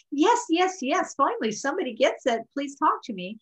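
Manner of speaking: high, eager yes yes; the body finally heard, pleading. Retold or imitated. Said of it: "bodies are going".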